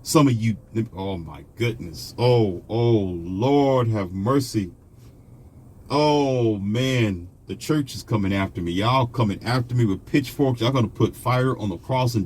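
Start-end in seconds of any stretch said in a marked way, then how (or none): 0.9-7.3 slow, drawn-out mock dismay; mock lament. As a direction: moan it out like a scandalized churchgoer. Mocks shocked viewers' lament.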